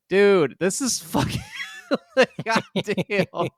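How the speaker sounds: high, strained mock exasperation, drawn out at the end; high-pitched disbelieving whine; exasperated inner voice. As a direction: squeak it out like you can't believe it. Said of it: "I'm just like".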